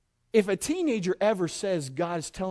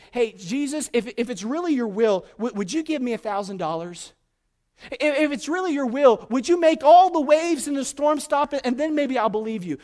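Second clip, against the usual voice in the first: mock bargaining prayer; 6 semitones higher, 6 dB louder than usual. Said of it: "He's not saying".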